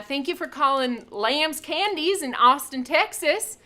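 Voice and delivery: a hint of a Southern US accent, hammed-up answering machine; lightly mock a Texas phone greeting in a Southern accent; bad Southern accent. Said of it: "that's a really poor accent from the South".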